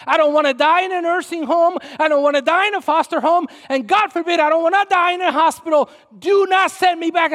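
loud, high, insistent pleading; impassioned plea. Retold or imitated. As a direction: retell a mother's forceful refusal. Retells mother's plea, forceful.

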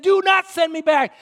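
loud, high, firm command; adamant refusal. Retold or imitated. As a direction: put your foot down, loudly. Mother's refusal retold.

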